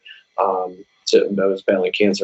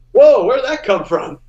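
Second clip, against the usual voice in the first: mock surprise; 14 semitones higher, 5 dB louder than usual. Reacting to a high melody.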